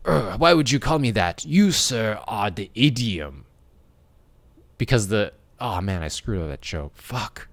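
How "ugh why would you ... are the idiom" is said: hammed-up indignant Frenchman with a thick accent; French detective accent. French detective answering someone who used an idiom on him, indignant French accent. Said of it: "And the detective is like".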